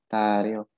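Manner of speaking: "tariok" as ta-riok, r opening the second part; r moved up. Shown as a demonstration. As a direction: say "tariok" with r linked to the vowel. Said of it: "R-nya jadi naik ke atas".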